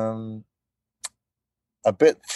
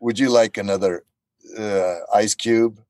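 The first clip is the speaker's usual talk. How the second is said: badly acted waiter. Shown as a demonstration. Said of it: "kind of acting a bit badly".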